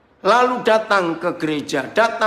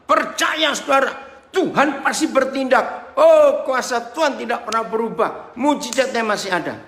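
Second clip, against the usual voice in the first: lightly mimicked rousing preacher, pitched up at the start; imitated sermon preacher; 4 semitones higher than usual. Preacher mimics the sermons people often hear, rousing proclamation. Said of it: "Kan begitu seringkali kita dengar khotbah".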